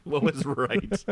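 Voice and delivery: slow, deliberate echo; slow repeat. Shown as a demonstration. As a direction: repeat it slowly, deadpan. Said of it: "what you really meant to say".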